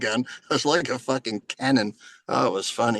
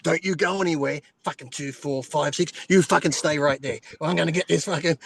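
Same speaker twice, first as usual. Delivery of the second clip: higher-pitched, hammed-up frantic homeowner; flustered mock panic; 4 semitones higher than usual. Homeowner to wife with a burglar waiting, mock flustered. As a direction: act out a harried fumble for the safe.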